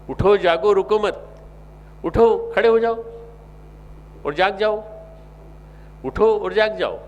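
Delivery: fiery preacher's war cry; rousing shout. Real, not acted. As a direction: shout them awake.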